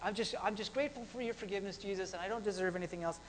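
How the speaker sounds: soft, quick murmured prayer; humble mock prayer. Believer thanking Jesus for forgiveness, humbly and softly. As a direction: pray it low and hurried.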